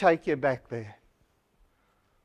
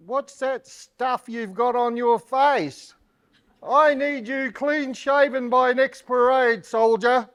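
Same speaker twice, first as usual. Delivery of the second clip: stern officer; 6 semitones higher than usual. Acted. Officer ordering a soldier.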